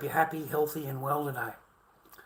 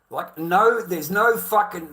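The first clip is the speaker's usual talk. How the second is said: loud protest; 5 semitones higher, 9 dB louder, slower than usual. Real, not acted. Angry rant.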